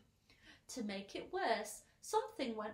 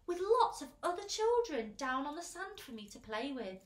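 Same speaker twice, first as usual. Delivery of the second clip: put-on loud, higher, eager child's wish; 5 semitones higher, 6 dB louder than usual. A narrator's reading. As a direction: bubble over with hope. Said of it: "said James eagerly".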